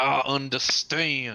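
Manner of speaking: teeth-clenched delivery. Critiquing another speaker's voice work, demonstrating the line: through gritted teeth. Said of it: "say it through gritted teeth".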